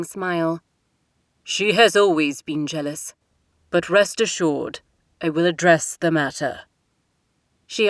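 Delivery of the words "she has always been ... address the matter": lightly voiced king, firm; a father settling the matter; a hint of a stern king. King's voice held by narrator.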